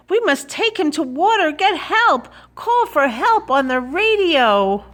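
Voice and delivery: put-on high-pitched, pleading child; urgent boy. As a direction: urge in a high, anxious boy's voice. Boy urges policeman to get help.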